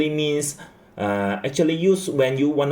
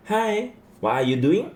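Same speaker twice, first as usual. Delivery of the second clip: phone greeting; 9 semitones higher than usual. Acted. Acting the phone caller.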